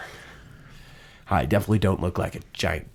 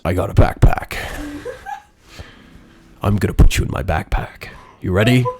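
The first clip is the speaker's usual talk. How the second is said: Sebastian voice; 5 dB louder, faster than usual. Acted. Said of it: "and he says".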